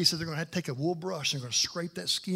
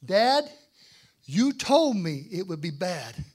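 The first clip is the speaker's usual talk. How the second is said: pained cry; 7 dB louder, much slower than usual. Retold or imitated. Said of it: "And I said these words".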